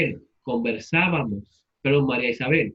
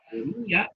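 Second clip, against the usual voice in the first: Comía with a higher í, held apart from the a; stress on the í; 5 semitones higher than usual. Shown as a demonstration. Teacher repeating the example for students, Comía stressed on the í. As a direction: lift the í in Comía: co-MÍ-a. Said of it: "acento en la I".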